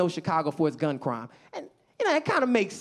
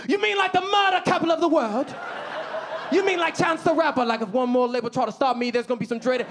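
excited British local; 7 semitones higher than usual. Acted. London local learning he's from Chicago, excited British accent. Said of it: "They were very excited by my accent".

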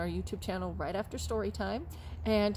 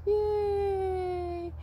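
cheer; 11 semitones higher, 5 dB louder than usual. Acted. Cheer to kids.

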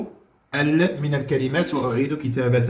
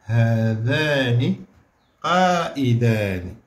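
هذان said slowly again; slow rising هذان; slow dictation; much slower than usual. Shown as a demonstration. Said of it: "شنو نقولوا؟".

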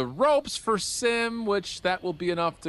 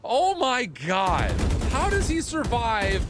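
amazed; 5 semitones higher, slower than usual. Real, not acted. Amazed at a player surviving.

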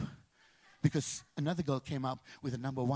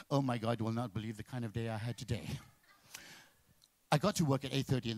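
wife's gushing voice; 6 semitones lower than usual. Retold or imitated. Imitating wife telling her day.

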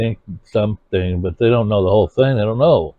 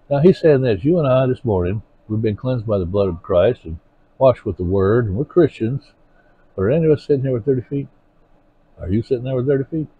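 preaching; 3 semitones higher than usual. Acted. Preaching builds to questions.

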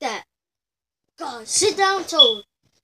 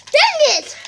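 frustrated outburst; 11 semitones higher, 7 dB louder than usual. Pretend. Loses the video game.

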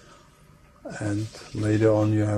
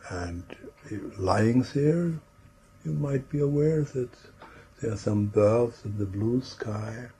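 unhurried meditation voice with long pauses; guided imagery. Real, not acted. Trainer guiding a group into relaxing, in a calm imagery voice. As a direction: lead listeners gently through the scene, leaving space between phrases.

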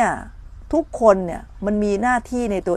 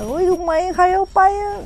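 mock outcry; 11 semitones higher than usual. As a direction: act out fussing at whoever took it. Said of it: "แล้วเราก็โวยวาย โวยวาย โวยวาย".

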